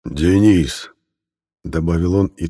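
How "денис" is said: bear voice. A narrator's reading. Bear names Denis, beats chest.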